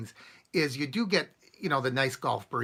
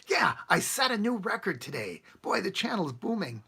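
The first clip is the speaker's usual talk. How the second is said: raised, hammed-up excitement; mock boasting; 6 semitones higher than usual. Vlogger parodying a bragging channel owner, mock-excited boast. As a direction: crow about it in mock triumph. Imagined boast about setting records.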